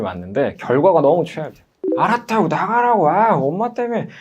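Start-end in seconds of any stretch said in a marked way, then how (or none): 2.0-4.1 put-on high, exasperated teen yell; mock furious teen cutting off mum; teen snapping back. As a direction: whine it out like a sulky teenager who lost sleep.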